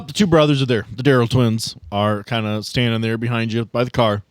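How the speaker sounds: ordinary talk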